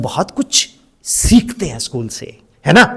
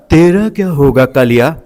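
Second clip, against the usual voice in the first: energetic film villain; 5 semitones lower, 4 dB louder than usual. Shown as a demonstration. Trainer showing teachers how a film dialogue gets energy, energetic villain delivery. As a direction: put villain energy into the words. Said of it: "अब उन्होंने इस energy से बोला".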